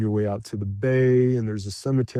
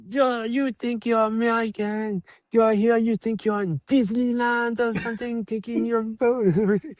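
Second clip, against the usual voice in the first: mock scolding boatman, much higher; irritated local; 11 semitones higher than usual. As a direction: imitate an annoyed Venetian telling off a tourist. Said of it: "They were like".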